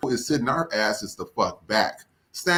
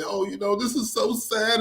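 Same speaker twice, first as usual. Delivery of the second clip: higher, slowed-down mock lament; mock sympathy; 7 semitones higher, 3 dB quieter than usual. Supporter pretending to pity them, high mock-sad voice. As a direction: put on a pitying voice. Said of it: "talk about you and say".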